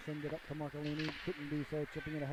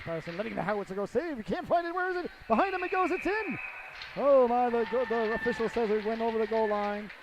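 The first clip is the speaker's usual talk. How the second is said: much higher and louder, shouting the goal; excited goal call; 5 semitones higher, 10 dB louder than usual. Real, not acted. Commentator calling the power play goal, much louder and higher. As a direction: explode with the goal call, then settle a little.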